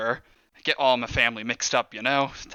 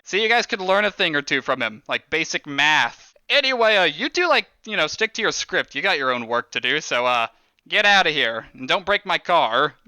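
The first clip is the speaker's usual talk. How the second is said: bossy orders to goons; 2 semitones higher than usual. Acted. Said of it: "He's like".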